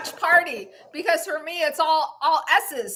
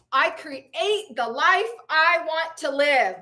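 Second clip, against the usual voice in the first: measured, emphatic affirmation; with conviction. Shown as a demonstration. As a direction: proclaim each phrase with belief. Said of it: "Say it with conviction, you guys".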